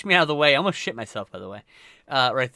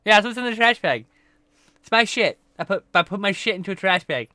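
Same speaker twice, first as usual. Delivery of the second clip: matter-of-fact admission; 5 semitones higher than usual. Retold or imitated. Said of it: "I'm like".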